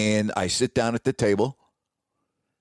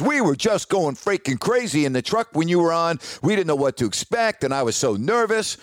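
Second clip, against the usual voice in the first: lightly raised pitch, a touch of excited gushing; retold animated boss; 5 semitones higher than usual. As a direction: relay the boss's thrill, a bit higher and brighter. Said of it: "you know, very animated".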